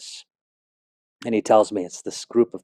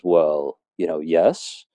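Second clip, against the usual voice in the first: lightly imitated Jamaican accent, low and unhurried; 5 semitones lower, much slower than usual. Older Jamaican man answering the long-haired teen, in a light Jamaican accent. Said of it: "with an accent real strong".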